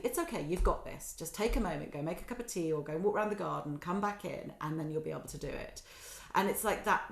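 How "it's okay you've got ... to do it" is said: self-soothing. Retold or imitated. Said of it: "I will self-soothe and say".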